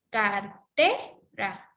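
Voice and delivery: Cartera very slow, TE swooping up; Car-TE-ra in separate stretched syllables; stress on second syllable. Shown as a demonstration. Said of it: "mayor fuerza de voz está en T".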